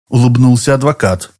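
plain reading voice

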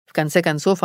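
ordinary delivery, nothing marked

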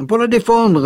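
a grave, pointed echo of his words. Acted. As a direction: weigh the words with gravity. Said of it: "reprit Gilda gravement".

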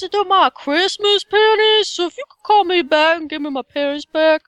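high-pitched put-on African American accent; black voice. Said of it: "do the black voice for us".

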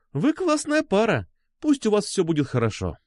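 put-on high, friendly café girl; smiling good wishes. A narrator's reading. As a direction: send the couple off kindly, high-voiced. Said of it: "улыбнулась нам кофейная девушка". (приветливо, с улыбкой)

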